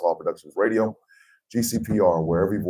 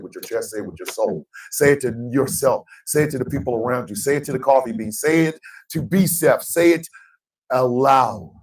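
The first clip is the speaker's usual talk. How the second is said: higher and louder with every line; rallying shout; 7 semitones higher, 6 dB louder than usual. Real, not acted. Host rallying the coffee beans into the sign-off, building to a shout. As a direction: whip the crowd up, building to a yell.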